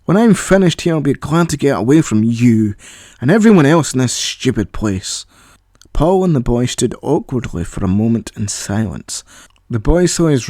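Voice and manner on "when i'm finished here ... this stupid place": exasperated rant. Acted. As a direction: vent your frustration. Paul's angry rant at AI.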